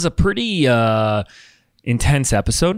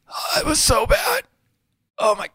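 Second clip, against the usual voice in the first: high, thin mock whimper; mock pained; 12 semitones higher than usual. Host recalling his lost voice, mock pained whine. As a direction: whine about how bad it was, half joking.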